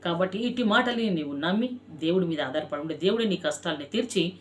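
sermon. Acted. Pastor preaching to his congregation, fervent and rhythmic. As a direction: preach it with repeated cries of దేవుడే.

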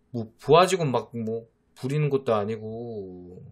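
ordinary talk, nothing marked

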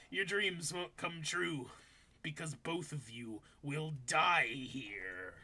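slow, measured mock threat; deliberate comic-villain line; ominous reading. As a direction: draw the threat out slowly.

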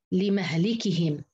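slow لمهلكهم with a after م and i after ل; fatha-kasra reading. Shown as a demonstration. Teacher demonstrating Hafs's reading, slow and careful. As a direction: sound out لمهلكهم slowly, "li-mah-li-kihim". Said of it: "بفتح الميم وكسر اللام".

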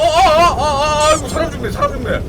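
high, loud wailing; panicked cries. Real, not acted. Player wailing as zombies maul him. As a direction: howl as the mob attacks. Attacked by mob.

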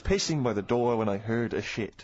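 put-on light comic French accent. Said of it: "I'm talking in a French accent".

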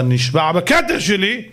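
mock royal vow, rising and rushing; angry king's oath. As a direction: threaten your son like a furious king. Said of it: "המלך אמר".

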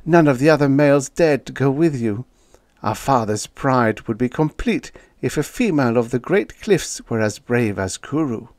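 lightly voiced earnest sister, pleading; a hint of a young woman urging her brother.

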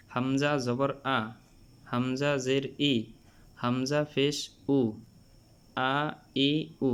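"আ, ই, উ" started firmly from the throat; firm glottal start on "আ, ই, উ"; firm throat-onset hamza. Shown as a demonstration. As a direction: hit the hamza in "আ, ই, উ" hard. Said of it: "হলকের প্রথম থেকে শক্ত করে পড়তে হয়".

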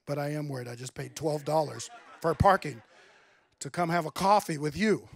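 mock-worried reply broken by a laugh; laughing through it. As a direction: laugh at your own predicament.

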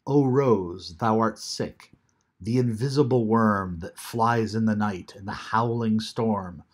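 measured, deliberate poetry reading; poem reading. Acted. Teacher reading The Sick Rose aloud to the class, measured. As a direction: let each line land, unhurried.

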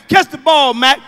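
loud call across the field. Retold or imitated. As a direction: yell it across the outfield. Coach calling across field.

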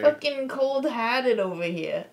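put-on Massachusetts accent. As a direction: grumble in a mock Massachusetts accent. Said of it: "I'm just gonna talk like that".

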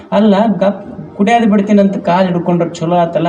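lightly voiced neighbour woman, puzzled; a hint of a curious old woman; old neighbour asking. Neighbour woman asking the crying wife, mildly puzzled. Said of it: "ಮಗ್ಗಲ ಮನಿ ಮುದುಕಿ ಬಂತು".

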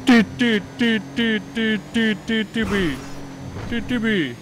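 too panicked to get the name out; high stammering fright. Acted. Stuttering in panic.

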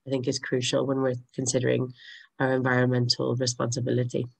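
hoarse, croaky throat; talking through a sore, croaky throat. Real, not acted. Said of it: "I have a very croaky voice today".

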